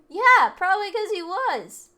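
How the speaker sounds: high, loud, slow sarcastic yell. Acted. Student cutting in about the rich kid, loud sarcastic yell. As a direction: bark it back with biting sarcasm.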